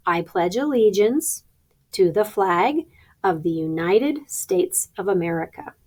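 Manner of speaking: measured pledge recital with gaps between phrases; slow pledge. Shown as a demonstration. Teacher models the pledge for announcers, slow pledge. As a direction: recite slowly and distinctly for others to follow. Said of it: "say the pledge slowly".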